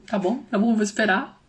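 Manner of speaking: soft giving in. Retold or imitated. Mother quietly agreeing to wait for her daughter. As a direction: back off gently, just wait. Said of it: "Aí eu fico".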